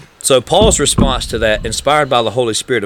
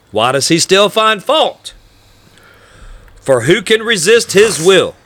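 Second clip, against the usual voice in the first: slow mocking objector; 8 semitones higher, 3 dB louder than usual. Reading the objector's question.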